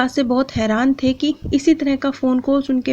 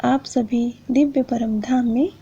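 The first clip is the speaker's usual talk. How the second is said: blessing. Acted. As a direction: bless the listeners gently, unhurried. Closing blessing to viewers.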